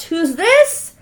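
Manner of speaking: ordinary delivery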